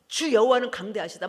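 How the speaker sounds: a loud cry of praise; bursting praise. Retold or imitated. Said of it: "막 터져 나오면서".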